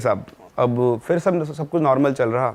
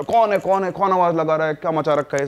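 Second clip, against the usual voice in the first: higher, challenging shout into the dark; calling out; 3 semitones higher than usual. Retold or imitated. Father searching around the house, challenging call. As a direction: demand who is there, half shouting.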